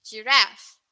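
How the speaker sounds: "Giraffe" the American way, short "ref"; American pronunciation. Shown as a demonstration. Teacher modelling the US "Giraffe" to the class. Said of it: "This is how they pronounce giraffe".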